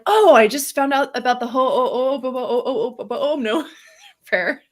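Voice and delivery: high, fast excited retelling of a friend; bubbly friend tripping over the word; imitating her friend. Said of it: "she was like".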